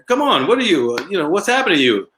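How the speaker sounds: mock roast, high and building; imitating the comedian. Comic mocking the zombie man, lightly voiced, pitched high. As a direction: needle the stone-faced guy, comic style. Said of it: "the zombie just looked there".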